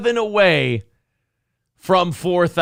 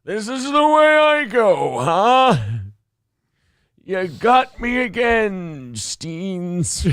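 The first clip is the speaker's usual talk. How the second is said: put-on dying old man; slower than usual. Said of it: "there's a fucking dart in his neck".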